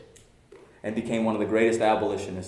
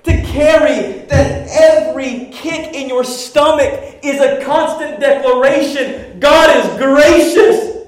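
much higher and louder, slow pounding sermon; full-force preaching; 14 semitones higher, 14 dB louder, slower than usual. Acted. Pastor thundering at the congregation about pride, full-force preaching. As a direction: preach it to the rafters.

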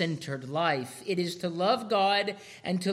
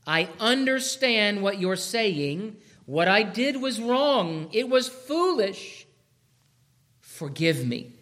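put-on contrite child. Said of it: "unless you're gonna say this".

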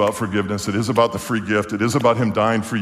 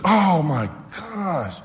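exasperated wife; 6 semitones higher, much slower than usual. Retold or imitated. Wife embarrassed by husband's joke.

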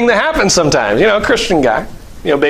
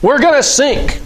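higher, hurried panicky pleading; mock frenzied panic; 6 semitones higher than usual. Disciple pleading with Jesus in the storm, mock panic. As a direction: beg Jesus to bail, half-hammed. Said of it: "in your frenzied panic".

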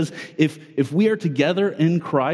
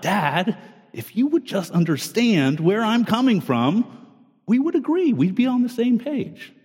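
put-on a kid insisting to dad, pitch jumping much higher on agree; whiny kid sure dad just doesn't get it; pleading kid; 5 semitones higher than usual. His children voiced arguing with him.

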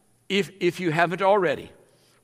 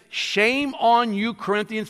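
mock scolding; 4 semitones higher than usual. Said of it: "it is scolding them".

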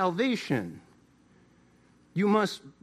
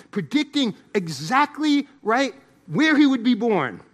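bursts of raised, punched preaching; emphatic preaching; 5 dB louder than usual. Real, not acted. Preacher urging prophecy as evidence, emphatic and raised. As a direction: drive the point home from the pulpit.

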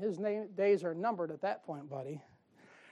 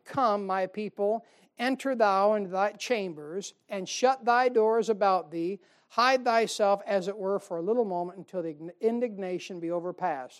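scripture reading. Acted. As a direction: read it out to the flock like holy writ. Preacher reads Isaiah passage.

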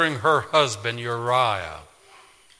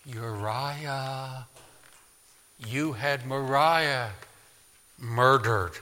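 much softer, slow hushed accusation; conscience whispering; 6 dB quieter, much slower than usual. A narrator's reading. Conscience reminding David of murder, soft hushed. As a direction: whisper it like a guilty memory. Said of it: "his conscience would then whisper".

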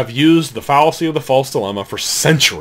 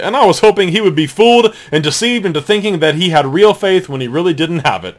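mocking reading; 5 semitones higher than usual.

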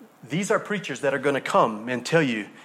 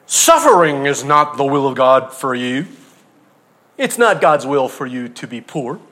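mock prosperity preacher; 6 dB louder than usual. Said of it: "you gotta say it with a southern drawl".

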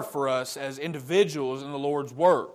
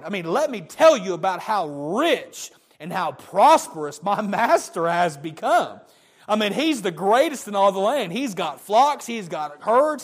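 louder, higher, bursting with pride over the master's riches; excited servant; 4 semitones higher, 4 dB louder than usual. Retold or imitated. Servant excitedly telling Rebekah's family of his master's wealth. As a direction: gush about everything your master owns. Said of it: "he was so excited".

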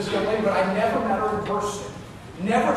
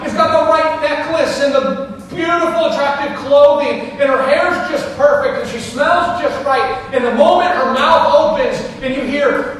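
loud, high, driving preacher delivery; raised voice, punching the key phrases; full-force preaching; 8 semitones higher, 10 dB louder than usual. Real, not acted. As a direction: build the point forcefully for the whole congregation.

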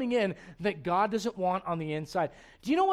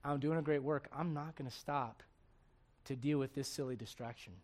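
confident; 5 semitones lower, 8 dB quieter than usual. Shown as a demonstration. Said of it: "honestly and confidently say".

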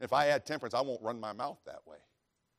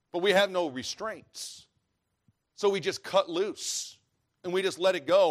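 higher and slower, building louder; fervent preaching; 6 semitones higher, 5 dB louder, slower than usual. Real, not acted. Preacher rebukes the congregation, rising and loud. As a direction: let it swell into a preaching cry.

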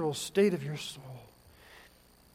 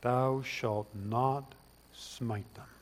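mock biblical prophet; 4 semitones lower, 6 dB quieter, much slower than usual. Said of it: "Elisha says something very Christ-like".

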